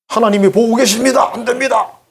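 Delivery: earnest refusal. Retold or imitated. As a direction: hold your ground, voice up high. Joseph refusing the mistress.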